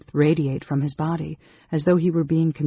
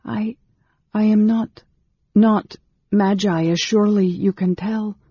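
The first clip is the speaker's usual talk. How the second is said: higher, halting woman's voice; anxious protesting woman; 6 semitones higher, 5 dB louder than usual. A narrator's reading. Anne Beryl denying she is magi to Raistlin, anxious and high.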